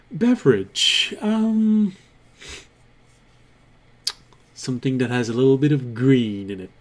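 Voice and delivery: character voice. Acted. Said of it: "When you use his voice".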